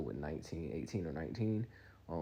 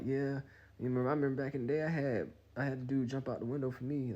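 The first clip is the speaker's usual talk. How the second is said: lightly voiced mother, higher pitch; a hint of her mom recalling old days; reminiscing mom; 6 semitones higher than usual. Mom to girlfriend on phone, lightly imitated reminiscing. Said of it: "her mom like".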